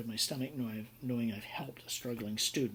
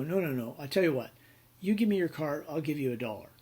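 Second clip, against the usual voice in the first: insistent counteroffer; 3 semitones higher, 5 dB louder, faster than usual. Retold or imitated. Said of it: "And you go".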